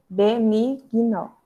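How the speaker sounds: benigno said slowly, syllables pulled apart; teacher slowing benigno for dictation; slow and clear. Shown as a demonstration. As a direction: drag out benigno so the class can split it.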